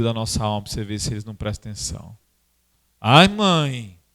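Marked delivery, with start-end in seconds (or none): 3.0-4.0 put-on frightened child. Child frightened by enemy story.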